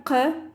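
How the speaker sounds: "q" as a k made deep at the uvula. Shown as a demonstration. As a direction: say "q" like k, further back in the throat. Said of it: "but it's deeper".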